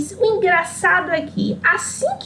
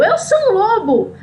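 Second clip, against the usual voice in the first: higher, slowed mock roar of the wolf; mock wolf yell; 6 semitones higher than usual. The wolf shouts at Chapeuzinho, hammed-up mock yell. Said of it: "e ele gritou".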